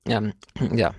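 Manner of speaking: throat-clearing, frog in throat. Real, not acted. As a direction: talk past a frog in throat. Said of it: "ich hab was im Hals gerade".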